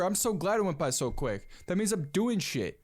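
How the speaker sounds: normal talking voice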